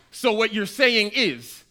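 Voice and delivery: mock skeptical listener. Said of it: "a sentence is begun with".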